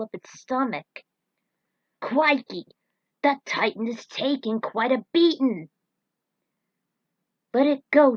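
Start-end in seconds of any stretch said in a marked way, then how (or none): 2.0-5.7 loud, eager Aussie-flavoured exclamation; excited cry. Acted. Ally cheering the Titan's beating, loud and excited. Excited character shouts in battle. 7.5-8.2 sharp loud urging; firm call. Acted. Teammate stopping Jack from charging, loud and firm. Character urges restraint mid-battle.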